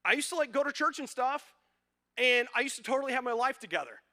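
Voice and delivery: put-on high, fast, whining young voice; whiny lament voice. Pastor voicing the sad psalmist, high and whining. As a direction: play a lost soul whining about the good old days. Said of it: "He's going".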